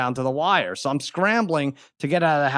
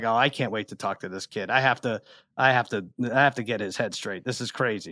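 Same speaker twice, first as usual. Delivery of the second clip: muttered thought; 5 semitones lower, 6 dB quieter than usual. Retold or imitated. Father's inner thought, quieter.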